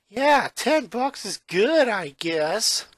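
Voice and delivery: dry, unimpressed "Yeah, ten bucks is good"; sarcastic. A narrator's reading. Lincoln to Luann about the tip, sarcastic. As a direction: let the sarcasm drip, slowly. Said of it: "Lincoln replied sarcastically".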